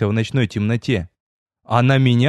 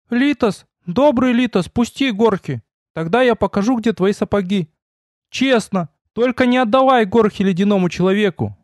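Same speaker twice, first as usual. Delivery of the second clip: high, thin timid little goblin voice; 8 semitones higher than usual. Acted. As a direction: squeak it out like a frightened goblin. Goblin begs the hunter. (тонкий голосок гоблина)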